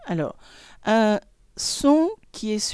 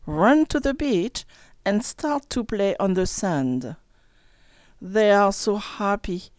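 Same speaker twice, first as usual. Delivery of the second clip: story reading. Acted. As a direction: read it like to children. Reads story to class. (lecture d'histoire pour enfants)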